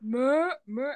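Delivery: mock American goat bleat; American goat accent. Shown as a demonstration. Answering a friend's request, American goat bleat. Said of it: "Sa U S".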